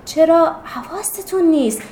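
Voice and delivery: loud, urgent call to friends; loud exclamation. Acted. Girl correcting her classmates, exclaiming loudly. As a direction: raise your voice to set them straight. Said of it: "یکو شفیقه بلند گفت".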